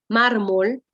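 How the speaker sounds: "mármol" with weight on the opening már; stress on penultimate syllable. Shown as a demonstration. Teacher giving an example of a grave, "mármol" stressed on már. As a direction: lean on the first syllable of "mármol". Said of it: "su fuerza de voz está en la penúltima".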